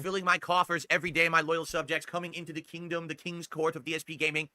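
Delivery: grand king voice; warm regal boom. Pretend. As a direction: play a pompous king addressing subjects. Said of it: "when I talk like that".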